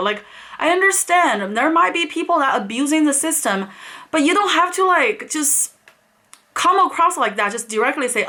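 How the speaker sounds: high-pitched, fast, incredulous protest; offended outburst. Retold or imitated. Customer venting at the agent for treating her like a thief, high and fast. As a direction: sound insulted and demand an answer. Offended at being called a liar.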